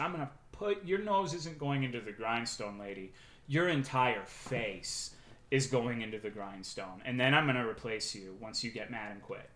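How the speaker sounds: a hint of a villain's quiet warning; quiet mock threat. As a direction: lean in low and hush the threat. Imagined threat to the employee.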